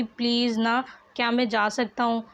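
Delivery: usual speaking voice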